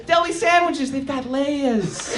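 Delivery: loud, hammed-up ogre growling at the donkey; Shrek impression. Scottish friend doing Shrek in a New York accent, hammed-up. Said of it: "he does his best impression".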